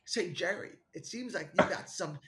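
lightly voiced sitcom neighbour impression; Kramer. Host trying Kramer and faltering, half-hearted impression. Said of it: "maybe I can do Kramer".

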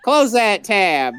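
slow, deliberate command; drawn-out firm demand; insistent order. Real, not acted. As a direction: spell out the order slowly, losing patience. Repeated order to stop reading quotes.

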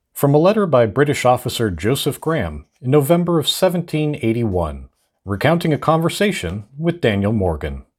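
vintage radio announcer reading voice; old-timey radio announcer. Shown as a demonstration. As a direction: read it like an old newsreel narrator. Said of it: "I read them in an old-timey radio announcer voice".

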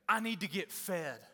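lightly voiced whiny member wanting to be fed; a hint of a needy complainer; mock needy churchgoer. Pastor mocks church people asking to be fed, lightly whiny. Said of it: "You ever heard people talk like that?".

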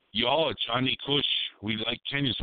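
mock Jamaican accent; misfired Jamaican accent for a supposed Kenyan. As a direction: put on a rough Jamaican accent, badly off target. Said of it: "why am I hearing a, uh, Jamaican accent".

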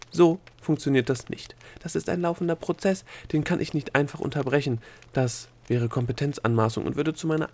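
lightly voiced rule-bound bureaucrat; officious Egozette. Bureaucrat explaining to the gnome why rules must be followed, officious.

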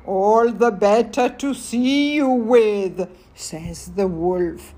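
put-on reading aloud to children; story narration. A narrator's reading. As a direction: tell the fairy tale gently to kids.

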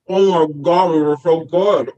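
talking through a mouthful of cookies; chewing while talking; mouth full. Acted. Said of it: "It's rude to talk with your mouth full".

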